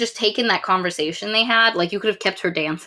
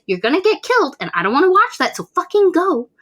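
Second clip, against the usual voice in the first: retold desperate yell; 9 semitones higher, 4 dB louder than usual. Shazi pleads with Tariq to leave.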